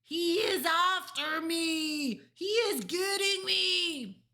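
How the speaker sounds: slow, high, full-force wail; terrified scream. A narrator's reading. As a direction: scream as if being hunted. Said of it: "screamed the flesh lump eater".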